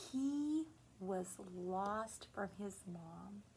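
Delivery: slow unvoiced whisper; hushed whisper. Real, not acted. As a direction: whisper it gently, a sad detail. Telling sad anecdote softly.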